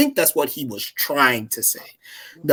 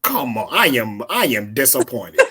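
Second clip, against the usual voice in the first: disappointed father; 3 semitones lower than usual. Real, not acted. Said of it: "I sound like a disappointed father".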